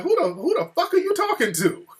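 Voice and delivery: very high-pitched indignant challenge; imitated cussing wife. Wife to intruding venue owner, imitated cussing. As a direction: put on an incensed wife's high voice. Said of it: "my wife is cussing him out".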